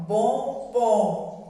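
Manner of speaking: "bombom" said with the nose pinched shut, sound blocked. Shown as a demonstration. Teacher showing second graders "bombom" with a blocked nose. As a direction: say "bombom" as if holding your nose closed. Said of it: "se a gente tapar o nariz e for falar bombom".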